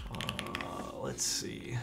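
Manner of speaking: whispering. Real, not acted.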